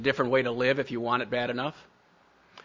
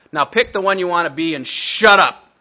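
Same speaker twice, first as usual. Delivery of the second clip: firm retold order; 4 semitones higher, 7 dB louder than usual. Leader's final blunt order.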